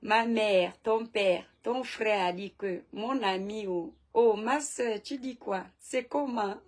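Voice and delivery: playful demo of a Gabonese accent; accent gabonais. Shown as a demonstration. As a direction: imitate Gabonese street talk with an affectionate put-on accent. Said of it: "j'adore l'accent gabonais". (accent gabonais imité pour le plaisir)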